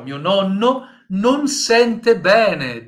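slow, loud model sentence; "mio nonno non sente bene" slow and loud, stress on "non". Shown as a demonstration. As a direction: read it slowly and loudly as the example. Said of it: "olha só".

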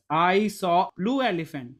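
emphasis on the article before "blue", meaning just one; teacher's demo stressing the "a" before "blue"; stress on one elephant. Shown as a demonstration. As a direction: lean on the "a" between "saw" and "blue". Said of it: "One elephant, not a number of elephant".

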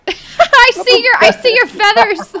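high, loud, laughing through words; giggling while talking. Real, not acted. Laughing at friend's turkey costume.

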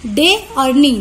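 डे and नी said as two separate beats; split into syllables. Shown as a demonstration. Teacher breaking denny into two syllables, डे और नी stressed separately. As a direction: stress डे, then नी, each on its own. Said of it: "हम दो बार यहाँ पर जोर लगा रहे हैं".

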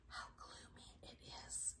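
breathless starfish whisper. A narrator's reading. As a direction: whisper it, gloomy and hushed. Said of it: "whispered the starfish".

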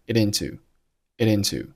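it into run together smoothly; linked it into. Shown as a demonstration. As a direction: join the t of it onto into. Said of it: "it和into同样辅元连读".

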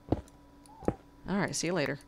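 whispered. Real, not acted. Whispered aside.

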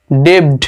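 mispronounced debt, audible B; debt with B sounded. Shown as a demonstration. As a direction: voice the silent B in debt. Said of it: "বি এখানে উচ্চারণ করা যাবে না". (debt-এ B-সহ ভুল উচ্চারণ)

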